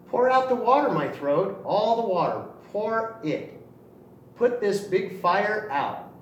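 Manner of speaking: urgent cry. Acted. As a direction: call the water out to save himself. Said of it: "the little small rooster cried".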